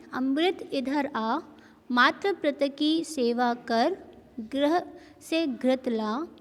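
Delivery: very slow, word-by-word sentence reading; dictation-pace classroom reading; slow reading for children. Shown as a demonstration. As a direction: read each word out slowly for young pupils. Reads practice sentences to children.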